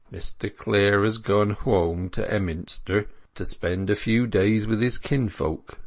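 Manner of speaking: rustic dairyman with West Country vowels. Acted. Dairyman telling the milkmaids where Clare went, casual rustic voice.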